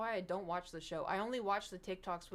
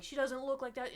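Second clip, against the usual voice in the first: high, a bit louder mocking voice; mocking internet people; 5 semitones higher, 4 dB louder than usual. Mocking online commenters who doubt the resemblance, voice pitched high. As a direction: mimic snippy commenters, pitched up. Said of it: "people on the internet were like".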